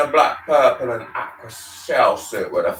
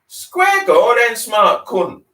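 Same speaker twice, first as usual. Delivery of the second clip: shouted challenge; 7 semitones higher, 6 dB louder than usual. A narrator's reading. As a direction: call them out to fight. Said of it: "the shell suit shouted".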